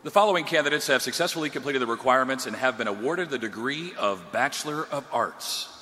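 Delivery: low, fast movie-trailer announcer read. Pretend. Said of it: "Doing my movie trailer voice".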